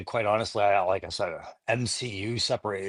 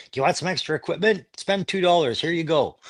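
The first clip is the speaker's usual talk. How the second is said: ad announcer; 6 semitones higher than usual. Retold or imitated. Voicing an old toy ad.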